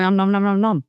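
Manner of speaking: chomping nom noises. Pretend. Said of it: "it's me going".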